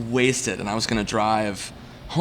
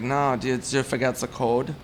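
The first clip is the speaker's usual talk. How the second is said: slow, lightly imitated German accent; German-accented neighbor asking with concern; elderly German woman. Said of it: "German woman, she's, like, seventy".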